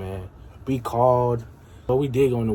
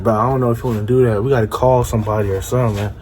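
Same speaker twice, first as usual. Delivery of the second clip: fast nervous warning; 5 dB louder, much faster than usual. Retold or imitated. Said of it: "I was like".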